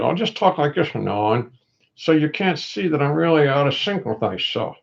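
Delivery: stiff-lipped ventriloquist talk; lightly muffled ventriloquist delivery; talking without moving lips. Shown as a demonstration. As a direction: keep the lips still to hide them.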